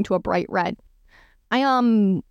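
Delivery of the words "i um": hesitant, halting start; stammering. A narrator's reading. Mister Bingley caught out in trouble, stammering. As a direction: stall on the first word, unsure.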